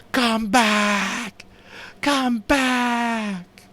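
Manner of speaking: high, loud desperate scream. A narrator's reading. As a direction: scream after the ship. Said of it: "screamed at the ship".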